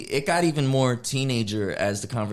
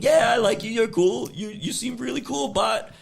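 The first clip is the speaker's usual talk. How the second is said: much higher, uneasy placating voice; nervous polite brush-off; 10 semitones higher than usual. Retold or imitated. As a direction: let him down gently, squirming. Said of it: "he's going".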